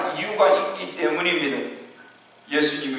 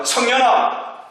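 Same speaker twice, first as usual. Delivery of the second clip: slow, raised commanding voice of Jesus; a solemn, slow command, pitched a little higher; 6 semitones higher, slower than usual. Acted. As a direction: call the dead youth to rise with slow authority. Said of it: "이렇게 명령합니다".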